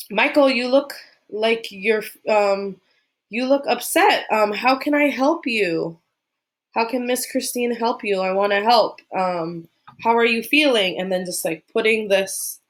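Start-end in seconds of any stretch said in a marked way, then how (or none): 0.1-11.0 gentle caring teacher. Shown as a demonstration. Miss Christine comforting an upset student, gentle and higher. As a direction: invite the child to share, tenderly. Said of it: "And I'll say".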